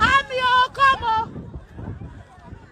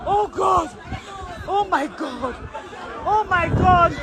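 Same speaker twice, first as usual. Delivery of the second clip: lower, panicked repeated moaning; terrified gibbering; 4 semitones lower than usual. Real, not acted. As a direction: gasp God over and over. Repeated panicked God calls.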